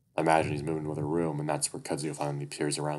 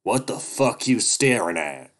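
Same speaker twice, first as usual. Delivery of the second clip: high, loud, slow nasal snarl; nasal weasel snarl; grating nasal voice; 5 semitones higher, 8 dB louder, slower than usual. Acted. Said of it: "Duke's grating, nasally voice".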